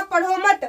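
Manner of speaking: "पढ़ो मत" as one phrase, then stop; pause after मत. Shown as a demonstration. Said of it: "थोड़ी देर या बोले तो अधिक देर रुकना". ("पढ़ो मत" साथ में, फिर ठहराव)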